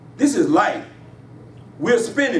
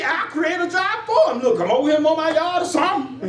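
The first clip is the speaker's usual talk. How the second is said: laughing mock boss; 8 semitones higher than usual. Pastor mocks self as employer.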